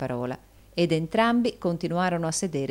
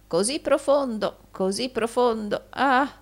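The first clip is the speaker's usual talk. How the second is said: high-pitched gushing admiration; exaggerated awe; fawning old usurer; 9 semitones higher, 5 dB louder than usual. A narrator's reading. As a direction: gush in a raised old flatterer's voice. Gride flatters Rodolfo admiringly.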